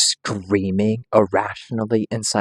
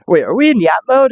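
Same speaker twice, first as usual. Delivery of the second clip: jolted, louder and higher; sudden surprise; 10 semitones higher, 5 dB louder than usual. Real, not acted. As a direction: blurt it out as you notice. Suddenly noticing the stream mode.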